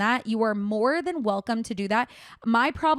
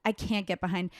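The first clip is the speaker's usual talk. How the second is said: breathless after the rant; out of breath. Real, not acted. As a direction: talk while catching breath. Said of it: "I'm out of breath".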